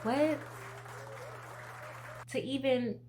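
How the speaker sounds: high, amazed "what"; stunned disbelief; surprised. Real, not acted. Disbelief at being cancer-free.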